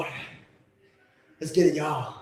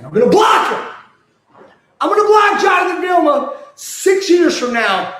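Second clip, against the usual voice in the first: laughing; 12 semitones higher, 3 dB louder than usual. Real, not acted. Laughing boast about blocking.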